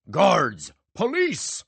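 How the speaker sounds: loud high alarm calls; yelling. A narrator's reading. Magician yelling for help in the dark theater, alarmed shout. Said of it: "Bosso yelled in the pitch black".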